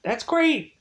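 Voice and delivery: high, gushing mock delight; giddy fake excitement over werewolves; mock thrilled. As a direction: gush as if werewolves are the best news.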